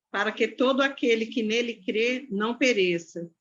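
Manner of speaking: ordinary talk, nothing marked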